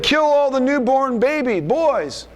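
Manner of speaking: lightly voicing a harsh king's order; a hint of a tyrant pharaoh, drawn out; Pharaoh's command. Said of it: "when Pharaoh said".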